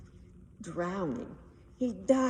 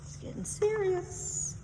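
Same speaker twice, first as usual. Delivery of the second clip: alarmed gasp; 10 semitones higher than usual. Acted. Narrator reacts with alarm.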